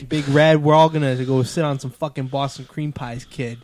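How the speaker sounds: put-on lightly done Boston accent; name the crew like a Boston local; mild put-on Boston accent. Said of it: "the best Boston accent you're gonna get".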